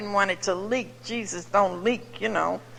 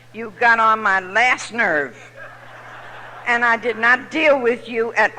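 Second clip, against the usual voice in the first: scornful emphasis; 4 dB louder than usual. Real, not acted. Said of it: "emphatic scorn".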